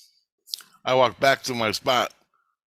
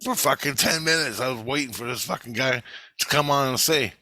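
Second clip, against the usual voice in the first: annoyed rant; 4 semitones higher than usual. Retold or imitated. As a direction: vent about the endless commercial break. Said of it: "I'm like".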